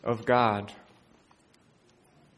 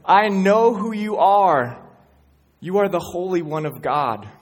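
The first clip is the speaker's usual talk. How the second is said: demon voice; 5 semitones higher, 6 dB louder than usual. Acted. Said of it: "the demon says".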